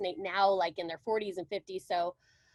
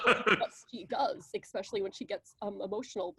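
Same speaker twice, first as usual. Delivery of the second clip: Laura Linney voice; 2 semitones lower than usual. Shown as a demonstration. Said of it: "she kind of just swallows all of her words".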